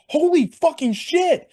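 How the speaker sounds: high-pitched, drawn-out, loud exclamation; shocked outburst. Retold or imitated. Fan reliving the sudden headlock, high shocked yell. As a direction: stretch it out high in stunned disbelief. Reenacting his shock at the attack.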